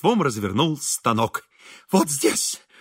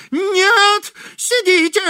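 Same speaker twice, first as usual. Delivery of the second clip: high, loud cry of no; shouting; 5 dB louder, much slower than usual. A narrator's reading. Host shouts at girl to stay seated, high and loud. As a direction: shout to stop her rising. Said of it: "закричал Изнурёнков".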